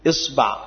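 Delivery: إصبع with kasra on the hamza and fatha on the ba, iṣbaʿ; vowel demo. Shown as a demonstration. Teacher listing the variant for students, careful iṣbaʿ. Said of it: "كسر الهمزة".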